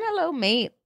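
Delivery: high-pitched Australian greeting; Australian accent. Shown as a demonstration. Co-host guessing at the accent, Australian accent.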